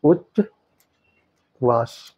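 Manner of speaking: उच्चवास drawn out very slowly; slow spelled-out word. Shown as a demonstration. Teacher giving students the correct form, very slow. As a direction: stretch उच्चवास syllable by syllable. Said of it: "इसका सही version क्या होगा".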